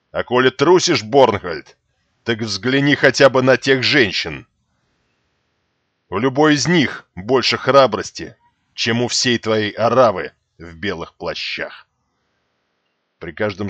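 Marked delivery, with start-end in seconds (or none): 0.1-11.9 scornful rebuke. Acted.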